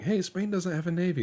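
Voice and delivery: high, taunting discovery; gleeful rival. Retold or imitated. Other navies gloating that Spain has no fleet. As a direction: gloat at the weakness. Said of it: "they're like".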